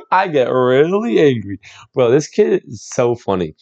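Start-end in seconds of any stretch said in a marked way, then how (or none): 0.1-1.6 lightly mimicked slow, stretched delivery; mildly exaggerated imitation of a cross kid; mock angry kid. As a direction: echo a kid's anger, drawing it out slowly. Echoing the kid's angry line.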